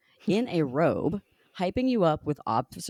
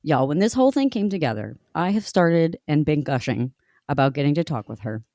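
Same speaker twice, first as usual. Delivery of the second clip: breathless and rushed from excitement; gasping between phrases, excited; shallow breathing; 5 dB louder than usual. Real, not acted. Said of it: "I'm out of breath again".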